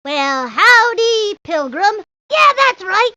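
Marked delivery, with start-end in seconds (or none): 0.0-2.0 slow, lightly voiced cowboy greeting; a kid's light take on a western star; Clint Eastwood. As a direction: drag out "howdy" very slowly, like a movie cowboy. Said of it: "And I can do impersonations".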